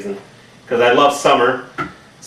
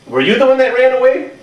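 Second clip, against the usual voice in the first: high, playful question to the dog; talking to the dog in a high, mock-scolding voice; high talking-to-pet voice; 11 semitones higher than usual. Real, not acted. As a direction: ask the dog in a high teasing voice.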